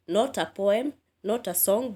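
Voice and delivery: "Not" punched on each phrase; stressed contrast. Shown as a demonstration. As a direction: hit "not" in both phrases. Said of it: "what we call sentence stress".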